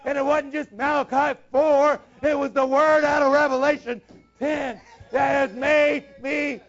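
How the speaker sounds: fervent preaching. Real, not acted. Preacher pressing his desire on the congregation, fervent. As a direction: preach it out with full conviction. Preacher builds to full force.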